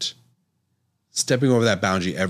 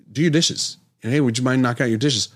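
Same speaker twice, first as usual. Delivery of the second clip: wife's request; 5 semitones higher, faster than usual. Retold or imitated. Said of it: "she would say".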